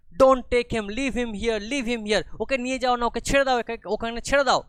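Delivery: put-on high, loud, desperate child's plea; crying plea. Leela begs the constable not to take the boy, crying. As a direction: beg them through tears.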